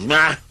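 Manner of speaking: snort. Acted. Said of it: "he snorted".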